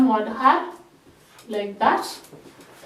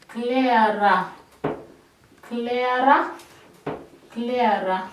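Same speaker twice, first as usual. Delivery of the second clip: drill repetition; slower than usual. Shown as a demonstration. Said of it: "You make it heavy".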